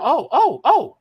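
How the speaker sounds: very high, loud imitated yelps. Opponent turning round on the mouthy rookie, imitated high voice. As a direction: imitate his high-pitched voice. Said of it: "He got a high voice".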